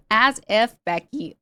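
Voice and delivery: brief mock Valley Girl. Shown as a demonstration. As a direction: lightly imitate a dismissive Valley Girl. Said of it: "when I think of Valley Girl accent".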